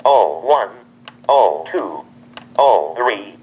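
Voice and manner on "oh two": ordinary talk, nothing marked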